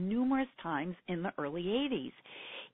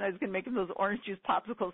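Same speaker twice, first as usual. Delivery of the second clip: normal talking voice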